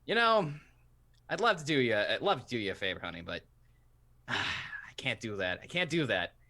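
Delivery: reporter character voice. Acted.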